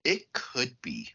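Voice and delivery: slow, hushed whisper. Real, not acted. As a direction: breathe it out like a secret. Ominous aside about the gang.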